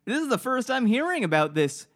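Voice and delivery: high, slow gee-whiz innocent voice; golly gee, wide-eyed and naive; wholesome 1950s kid. Pretend. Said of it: "golly gee".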